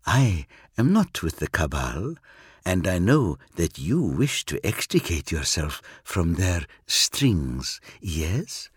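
a cool Eldar, aloof and sure of himself; alien Eldar. Acted.

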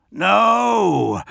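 a sharp high cry of alarm; yelled. A narrator's reading. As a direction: cry out to stop your men. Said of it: "the lion yelled".

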